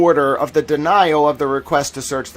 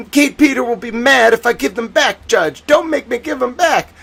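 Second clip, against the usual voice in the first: whiny mock plea to the judge, pitched up; mock begging; 6 semitones higher than usual. Host imitates Cosgrove begging the judge, mock whiny plea. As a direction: beg like a beaten lawyer, hammed-up. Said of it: "like, begging, begging Judge Doolin".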